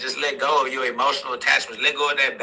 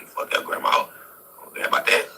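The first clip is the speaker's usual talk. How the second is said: whispered aside. Real, not acted. Dismissive aside.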